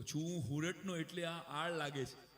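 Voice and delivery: slow Surti reading with હુરટનો for સુરતનો; Surti accent. Retold or imitated. Quoting the Surat poet's couplet, a light Surti accent. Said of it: "સુરતને સ બોલતા જ નથી આવડતું".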